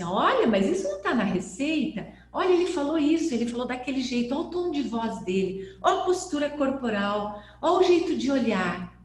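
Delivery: fast, eager pointing out; excited discovery. Retold or imitated. Students watching session videos, fast and excited. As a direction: point at each clue with rising excitement.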